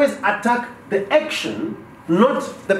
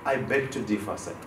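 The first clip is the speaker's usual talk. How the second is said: polite disagreement; 10 semitones lower, 10 dB quieter than usual. Shown as a demonstration. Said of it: "An assertive person will say".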